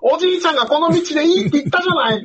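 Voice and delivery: high-pitched complaining daughter; whiny daughter. Retold or imitated. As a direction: whine it up high at grandpa. Daughter scolds grandpa on mountain.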